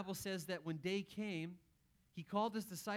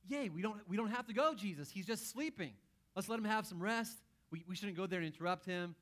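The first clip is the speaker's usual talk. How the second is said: relieved excitement; 2 semitones higher than usual. Acted. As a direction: cheer at getting out of the trip. Disciples relieved they needn't go.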